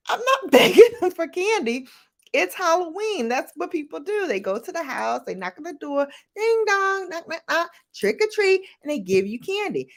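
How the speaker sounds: high, excited protest with a laugh; protesting kid. Retold or imitated. Arguing with grandmother about trick-or-treating, excited high protest. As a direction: insist it's just Halloween.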